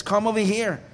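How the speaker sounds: calling out. Acted. Fox calls wolf into well.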